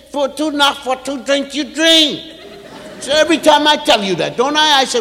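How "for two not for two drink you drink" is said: imitating child. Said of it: "you said".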